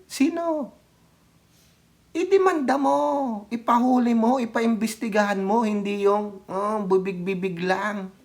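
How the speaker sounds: high sarcastic challenge; scornful high taunt; mocking. Real, not acted.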